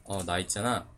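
very soft, low, slow tender Seoul speech; a man shows he can confess in standard Seoul speech; Seoul-style confession. Pretend. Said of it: "표준어로 해도 괜찮아요".

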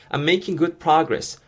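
very slow, every syllable laid out; slow model reading. Shown as a demonstration. English teacher modeling the phrase for learners, very slow. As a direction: model it slowly for students to copy. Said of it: "발음하실 때 주의하실 점은요".

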